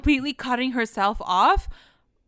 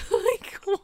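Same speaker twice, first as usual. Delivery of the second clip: incredulous; 10 semitones higher, 5 dB quieter than usual. Real, not acted. Both hosts baffled by plot.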